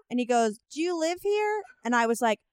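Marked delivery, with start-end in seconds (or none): 0.7-1.6 put-on very old man. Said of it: "It's a very old man".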